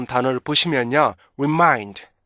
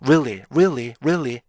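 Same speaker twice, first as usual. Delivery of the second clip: sped-up weakened REALLY; slower than usual. Shown as a demonstration. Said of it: "이 발음이 빨라지면요".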